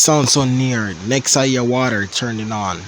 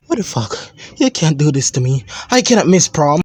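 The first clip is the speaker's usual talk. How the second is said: put-on teen protest; 5 semitones higher, 3 dB louder than usual. Son protests ban.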